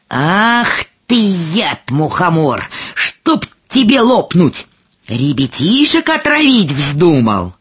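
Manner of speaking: heated, drawn-out telling-off; outraged storybook scolding; indignant scolding. Acted. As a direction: lay into the villain indignantly. Mushrooms attack and scold the fly agaric.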